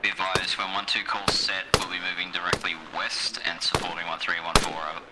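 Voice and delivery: radio transmission voice; crackly military radio. Real, not acted. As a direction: speak it over a field radio. Radio call to the squad.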